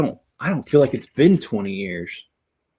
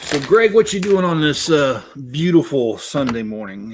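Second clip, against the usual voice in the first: louder, higher mock-cheery greeting that settles down; a little sarcastic; 3 semitones higher, 5 dB louder than usual. Real, not acted. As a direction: greet Greg with light sarcasm, overselling the morning. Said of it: "I'm being a little sarcastic".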